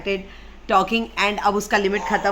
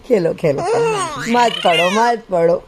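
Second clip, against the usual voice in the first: put-on louder, falling baby-directed reassurance; playful giving-in; 6 dB louder than usual. Mother telling her baby to play not study, playful reassurance. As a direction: coax the baby with short repeated permissions.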